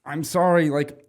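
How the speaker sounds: slow, broken German; bad German. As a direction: stumble through the German slowly. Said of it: "I was like".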